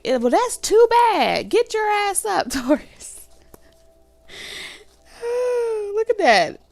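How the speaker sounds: high, loud, sassy put-on voice; tough-love coach. Partner pushing tired Taurus, high sassy tough love. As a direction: bark the order up high and sassy. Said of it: "And it's like".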